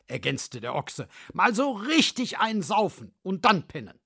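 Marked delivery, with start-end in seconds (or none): 1.3-4.0 boozy ox. Acted. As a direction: bellow it like a tipsy ox. Ox continues.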